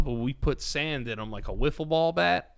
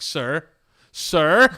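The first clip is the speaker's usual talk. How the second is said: rising, much louder frightened call; panicked calling; 2 semitones higher, 9 dB louder than usual. Retold or imitated. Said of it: "I remember just being like".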